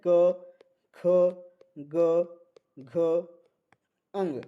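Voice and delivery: क, ख, ग, घ, अंग each said slowly and separately with pauses; reciting the letters. Shown as a demonstration. Teacher reciting the क row to students, separate and slow. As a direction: spell out क ख ग घ अंग one by one. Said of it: "यह ध्वनि क वर्ग की है".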